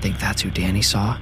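barely audible whisper; frightened hushed whisper. A narrator's reading. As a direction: whisper so quietly you can hardly hear it. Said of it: "I whispered so quietly".

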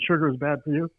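flat, even robot voice. Retold or imitated. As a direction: say it like a machine. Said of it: "in a robot voice".

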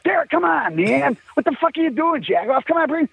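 high, exasperated mock scolding. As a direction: tell your bandmate off, half laughing. Scolding Derek at the mirror.

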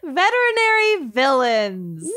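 giggling through the words; laughing. Real, not acted. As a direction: laugh while announcing the topic. Host laughing after fan's pick.

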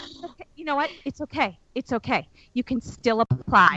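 softly reassuring; calm them down gently; a quiet, reassuring office lady; soothing office voice. Retold or imitated. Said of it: "And they're like".

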